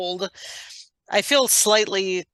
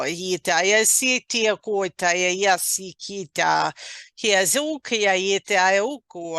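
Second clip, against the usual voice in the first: flowing, rhythmic stream of syllables; channeled light language; slower than usual. Acted. Channeler sharing energies with a listener, flowing light language. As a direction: chant the unknown tongue in rolling phrases.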